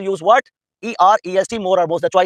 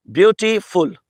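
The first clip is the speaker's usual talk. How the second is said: ब्यूटीफुल broken into three sounds, ब्यू, टी, फुल; syllable by syllable; 2 semitones lower than usual. Shown as a demonstration. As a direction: say ब्यूटीफुल with a small break after each syllable. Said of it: "ये जो एक एक sound break हुआ है".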